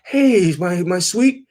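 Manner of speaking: put-on high, pleading old man on voicemail; imitating a lovesick old husband; mock old husband. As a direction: put on a frail, doting old man's voice. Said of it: "he's like".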